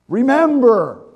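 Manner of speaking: a loud rallying cry of Remember!; shouted slogan. Shown as a demonstration. Preacher to the congregation, a loud rallying shout.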